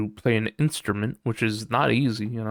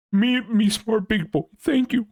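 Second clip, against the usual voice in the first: much higher, goofy dim-witted voice; dumb caveman voice; 11 semitones higher than usual. Pretend. Streamer joking he's smart, high goofy caveman voice. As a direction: play a proud dumb big boy.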